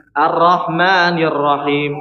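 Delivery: slow recitation with a thin "ra" in "Ar-Rahmanir"; teacher showing a wrong reading. Shown as a demonstration. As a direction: demonstrate the error: thin the ra. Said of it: "Salah seperti ini".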